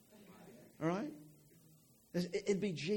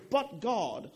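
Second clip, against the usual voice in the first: "But God" rising high and louder, with a falling finish; preacher proclaiming "But God" to the room, louder; proclaimed but God; 4 semitones higher, 4 dB louder than usual. Shown as a demonstration. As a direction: call out "But God" like good news. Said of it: "And, and we say".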